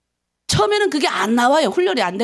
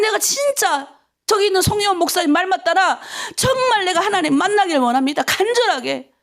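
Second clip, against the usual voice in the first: higher-pitched, pleading prayer to God; fervent repentance prayer; 4 semitones higher than usual. Shown as a demonstration. Preacher models asking God to meet them, fervent repentant pleading. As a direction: press on urgently in petition. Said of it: "회개하는 기도하기를 원합니다".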